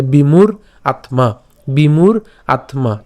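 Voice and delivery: বিমূঢ় আত্মা split clearly, bimur atma; careful pronunciation. Shown as a demonstration. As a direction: say বিমূঢ় আত্মা slowly in two parts. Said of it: "আত্মা উচ্চারণ করলাম".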